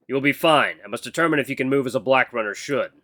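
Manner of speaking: a hint of a stiff, formal mentor; lightly voiced stern mentor. Mentor telling his acolyte he must test her, mildly stern. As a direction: speak with measured, formal authority, lightly in character.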